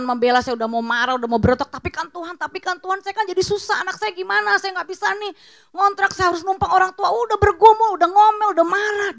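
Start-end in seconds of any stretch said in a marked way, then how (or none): 1.7-9.1 higher-pitched pleading, building to loud complaint; aggrieved plea that climbs into a rant; agitated protest. Retold or imitated. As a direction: protest your case, getting louder and more worked up. Acted protest to God, building.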